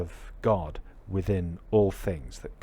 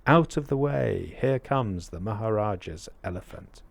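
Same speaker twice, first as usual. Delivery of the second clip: raised, higher-pitched warning call; shouting mahout; 4 semitones higher than usual. Acted. Mahout to people on the highway, shouting. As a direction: call out to clear the road. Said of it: "who's shouting".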